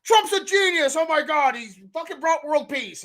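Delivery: high, gushing mock praise; hammed-up fan delight. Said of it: "Two weeks later".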